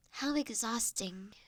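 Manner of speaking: soft unvoiced whisper with a sigh, slowing down. A stranger whispering sympathy to the automaton about its workload. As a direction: breathe it, lean in close.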